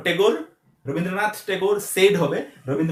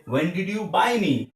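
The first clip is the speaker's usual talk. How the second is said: slow dictation; much slower than usual. Shown as a demonstration. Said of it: "dictating English model sentence".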